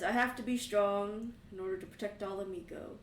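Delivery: loud, booming fatherly boast; a strong father reassuring his son; proud big dad. Acted. Big dad tells the kids he must protect Mi-Go, loud and proud.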